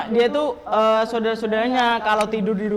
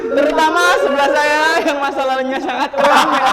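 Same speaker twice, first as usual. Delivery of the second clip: laughing; 4 dB louder than usual. Real, not acted. Teasing with a laugh.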